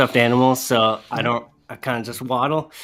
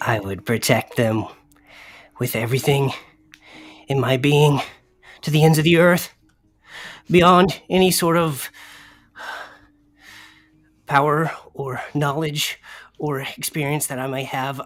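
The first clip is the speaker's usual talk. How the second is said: mumbled quietly to oneself, under one's breath; 2 semitones higher than usual. Asked to give an oath of protection, the character answers: muttered under breath. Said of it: "I say under my breath".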